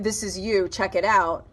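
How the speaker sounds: tossed off casually, a light shrug; breezy "check it out", like it's nothing; offhand. Retold or imitated. Reader shows the wrong message to viewers: offhand and breezy. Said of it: "The message isn't".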